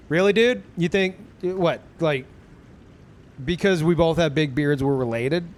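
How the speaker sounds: loud, incredulous sass; mock disbelief, pointedly sarcastic; sassy friend. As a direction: imitate a friend's sassy comeback. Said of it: "he can be very sassy".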